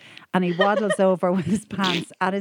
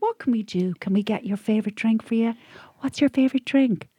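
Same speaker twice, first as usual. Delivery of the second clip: coaxing waiter; 4 semitones higher than usual. Retold or imitated. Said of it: "And he went".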